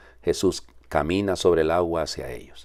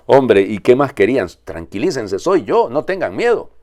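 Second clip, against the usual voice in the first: exasperated reassurance; 6 semitones higher, 7 dB louder than usual. Retold or imitated. Voices Jesus reassuring.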